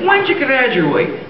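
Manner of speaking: high, drawn-out Irish lilt; Irish accent. Acted. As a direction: ask slowly as a stage Irishman. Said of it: "do I detect a bit of Irish?".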